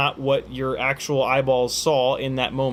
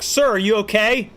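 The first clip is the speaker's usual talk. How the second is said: concerned passer-by; 7 semitones higher, 4 dB louder than usual. Acted. Passer-by worried about moaning listener.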